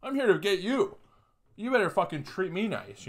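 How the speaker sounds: cocky talk-down to a dog, pitch climbing; mock alpha attitude. Sizing up the stupid dog, mock alpha swagger. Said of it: "my energy was like".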